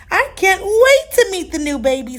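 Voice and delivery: high, eager squeal. Acted. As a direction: bubble over with excitement. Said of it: "squealed Fiona".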